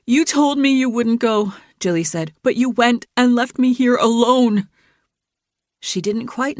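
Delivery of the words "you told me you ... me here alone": upset. Acted. Jilly upset, scolding Dylan.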